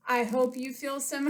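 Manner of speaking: winded after jogging; breathless after exercise; out of breath. Real, not acted. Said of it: "I feel a little bit winded".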